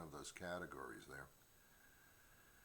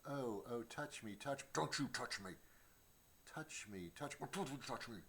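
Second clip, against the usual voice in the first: a hint of a fickle cat, higher; 4 semitones higher than usual. Voicing his moody cat, coaxing then snapping, lightly voiced. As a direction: flip between come-hither and get-away. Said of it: "That is so bipolar. It's like".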